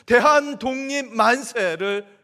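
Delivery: rising sermon climax. Real, not acted. Sermon climax on mass shouting.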